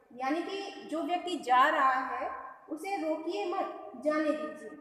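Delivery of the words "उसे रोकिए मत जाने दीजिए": slow "उसे रोकिए मत", then a break before "जाने दीजिए"; pause after मत. Shown as a demonstration. Teacher rewords it for pupils, pausing after "मत". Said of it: "मत शब्द के बाद अल्पविराम लगाते हैं".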